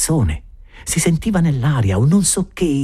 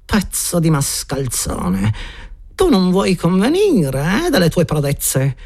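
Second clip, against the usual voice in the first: repressed rage; 8 semitones higher than usual. A narrator's reading. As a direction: hiss the threats, keeping anger in. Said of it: "a voce bassa, rabbia repressa".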